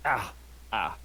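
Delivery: throat hurting from the voice; clearing a sore throat; strained throat. Real, not acted. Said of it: "Edgelord voice is hurting my throat".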